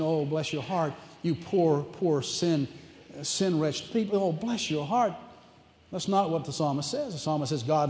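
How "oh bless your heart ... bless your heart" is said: softer, cooing pity; mock pity. Imagined God pitying poor sinners, soft cooing mock sympathy. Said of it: "feeling sorry for them, saying".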